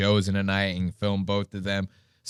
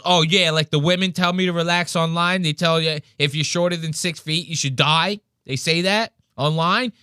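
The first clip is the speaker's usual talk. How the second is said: mildly hammed-up indignant rant, pitched up; mock freak-out; 5 semitones higher than usual. Imitating the deli guy told to relax, higher indignant rant. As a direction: imitate a man working himself up over a slight. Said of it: "The guy's freaking out that bad".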